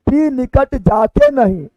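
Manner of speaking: slow reading, "नहीं" joined to "जाके"; pause after नहीं. Shown as a demonstration. Teacher showing how far to read, pause after नहीं. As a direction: read through to "नहीं" and stop. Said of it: "अब यहाँ तक पढ़ना है".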